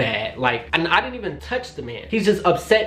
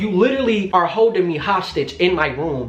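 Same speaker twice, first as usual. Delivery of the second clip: higher, incredulous tirade; indignant retort; 4 semitones higher than usual. Retold or imitated. Woman answering boyfriend who says he won't hit her, indignant. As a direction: throw his words back at him, fed up. Acted retort in retold fight.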